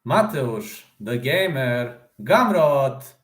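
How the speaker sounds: lightly voiced ring announcer; mock fight-night introduction, stretched out and building to the surname; a hint of an arena announcer, half-strength.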